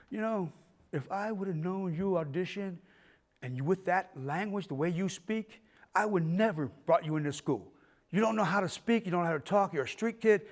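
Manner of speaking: imitated theatrical headmaster, softly spoken; quiet, self-important scolding; pompous dean. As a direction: look down on the pupil with measured disdain. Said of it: "we had a very pompous dean".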